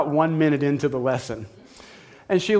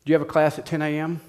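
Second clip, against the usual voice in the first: calmly. Retold or imitated. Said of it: "She just very calmly said".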